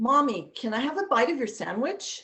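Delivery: put-on fast, high-pitched little kid voice. Demonstrating voices for storytelling, speaking as the kid: fast child's voice. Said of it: "spoke fast for the kid".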